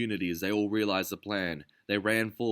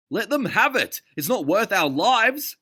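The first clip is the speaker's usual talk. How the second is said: much higher, louder urgent voice; pleading shout; 14 semitones higher, 10 dB louder than usual. A narrator's reading. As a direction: beg them to give it up. Sam arguing with Chancellor.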